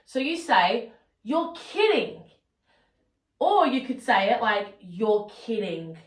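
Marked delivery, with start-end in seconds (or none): 1.2-2.2 slow, lifted, happily amazed; teacher shows a pleasant surprise to students, slow and delighted; positive disbelief. Shown as a demonstration. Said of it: "do you hear the difference". 4.8-6.0 teacher shows shock at bad news, low and dismayed; negative disbelief. Shown as a demonstration. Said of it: "do you hear the difference".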